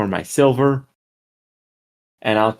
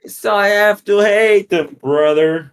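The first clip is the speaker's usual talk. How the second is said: put-on louder New York accent with a punchy brother; better New York accent; 8 semitones higher, 4 dB louder than usual. New York accent pushed for the cohost. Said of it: "See, that's a better accent".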